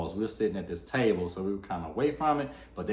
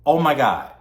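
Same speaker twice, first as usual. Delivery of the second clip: shocked; 4 semitones higher, 9 dB louder than usual. Retold or imitated. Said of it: "I was like".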